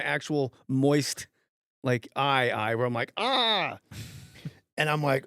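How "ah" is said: high-pitched "ah" of pain; retold pained cry. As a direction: cry out as if hit in the eye. Retold cry at being hit.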